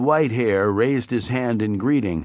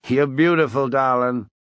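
mild Weasel voice; 3 semitones higher, 4 dB louder than usual. A narrator's reading. Weasel flatters the waitress.

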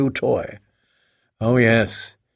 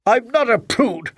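much higher indignant shout; mild scream; 8 semitones higher than usual. A narrator's reading. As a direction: scream the denial. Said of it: "Helen screamed at him".

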